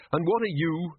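blustering, demanding archchancellor; gruff old wizard. A narrator's reading. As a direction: bark it like a bluff old wizard. Ridcully demands.

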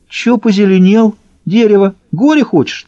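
high-pitched, goading thug voice; taunting challenge. A narrator's reading. Трубка goads his rival into a fight, taunting. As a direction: pick a fight, voice pitched right up. Armed quarrel between rival thugs.

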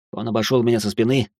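plain reading voice

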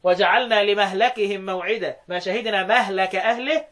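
لمهلكهم slowly as li-mahlakihim; fatha on mim and lam. Shown as a demonstration. Teacher showing Shu'ba's reading, fatha twice in مهلك. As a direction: say مهلك as mahlaka, a in both places. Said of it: "بالفتح في الاثنين".

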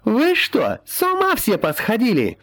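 scolding wail. A narrator's reading. Healer girl berating the men, shrill scolding. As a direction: scold them all like an outraged woman. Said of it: "заголосила, уперев руки в бока".

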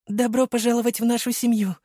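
put-on a mother overcome, clutching her children; tearful mother. Mother hugs son and bride, in a high tearful voice.

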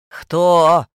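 loud rasp through intercom; hoarse intercom. A narrator's reading. Old woman rasps through the intercom, loud. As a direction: bark it through the box. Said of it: "прохрипела из домофона".

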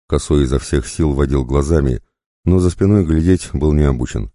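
usual speaking voice

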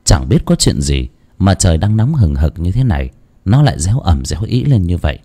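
steady storyteller's narration; story narration. A narrator's reading. Narrator opening a ghost story to listeners, calm storytelling. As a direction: tell the village ghost tale evenly.

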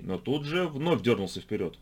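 usual speaking voice

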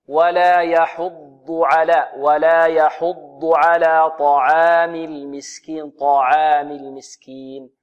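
slow, measured tajweed recitation; Quran recitation. Shown as a demonstration. Teacher modelling the verse for students, measured recitation. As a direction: recite it slowly with drawn-out long vowels.

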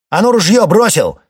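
bare your teeth and bark the order; snarling. Acted. Boyko orders Ermil to drop the gun, snarling yell. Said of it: "щерится майор Бойко".

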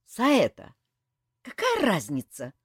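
loud spiteful snap; snapping back. A narrator's reading. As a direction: snarl it back at him. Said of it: "злобно огрызнулась та". (злобно огрызнуться)

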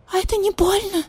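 very high squeak; squeaky. Acted. Marquise cat asks vulture if it hurts, squeaking. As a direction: squeak it like a frightened kitten. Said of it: "пропищала маркиза".

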